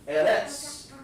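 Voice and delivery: high-pitched German-sounding "Eretz"; mock-German "Eretz", pitched right up; mimicked German accent. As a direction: imitate a German EH-rets, high. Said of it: "it sounds similar to German".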